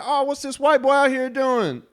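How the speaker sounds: partygoer's remark. Retold or imitated. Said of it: "they were like".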